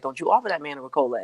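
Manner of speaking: inner voice. Retold or imitated. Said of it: "my other side was like".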